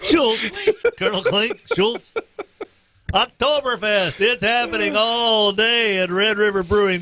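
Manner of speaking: playful mock German accent. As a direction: bark the names like a sitcom German. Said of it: "German accent".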